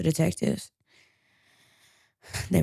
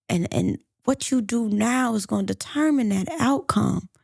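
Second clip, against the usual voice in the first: earnest, slightly raised plea; good cop urging; 3 semitones higher than usual. Acted. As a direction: coax a suspect toward confessing. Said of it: "he's playing good cop. He's urging Latasha".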